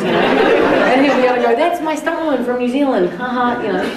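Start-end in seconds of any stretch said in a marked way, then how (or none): 1.5-3.6 Quentin-esque boast. Retold or imitated. Director boasting about his stunt woman during playback, imitated Quentin-esque. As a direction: lightly put on a showing-off film director. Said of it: "like a Quentin-esque kind of".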